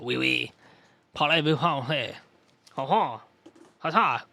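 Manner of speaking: light attempt at a French accent. Shown as a demonstration. Streamer testing out a French accent for a character, French accent. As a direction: try out a stock French accent, a bit hammed-up. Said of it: "What is a French accent?".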